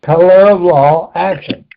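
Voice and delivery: slow repeat of the dictated words; dictating slowly. Shown as a demonstration. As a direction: say it again slowly for the writer. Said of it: "write down mob".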